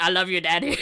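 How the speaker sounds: put-on sweet childish declaration; mock gushing child. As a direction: gush it like a delighted kid. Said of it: "when they actually get it".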